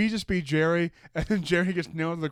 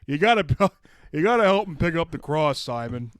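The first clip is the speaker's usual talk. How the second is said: louder, pushy urging; telling Simon to carry the cross, a bit louder; mild mock order; 2 semitones higher, 7 dB louder than usual. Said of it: "But it's like".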